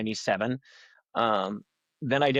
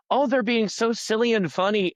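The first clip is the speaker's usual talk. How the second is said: put-on higher, delighted kid voice; child watching cartoons; 9 semitones higher than usual. A little kid watching old cartoons, delighted in a higher voice. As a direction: gush like a little kid watching Bugs Bunny. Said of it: "you were like".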